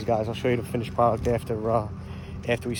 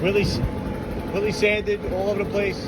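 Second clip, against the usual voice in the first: yelling over leaf blower; 3 semitones higher than usual. Real, not acted. Sorry about the blower.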